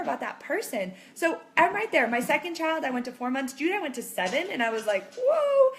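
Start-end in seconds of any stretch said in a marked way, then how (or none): 5.1-5.7 high, loud exclamation; acted burst of amazement; amazed. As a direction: let out an astonished cry, retold. Retold amazement at seven months.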